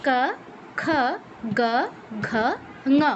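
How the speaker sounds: ক খ গ ঘ ঙ from the back of the tongue, lips still; velar series. Shown as a demonstration. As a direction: keep the face fixed through ক to ঙ. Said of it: "জিহ্বার পেছনের অংশ কণ্ঠে টাচ করবে".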